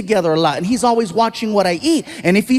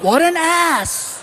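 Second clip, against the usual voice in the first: muttered insult; 5 semitones higher, much slower than usual. Retold or imitated. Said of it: "I was like".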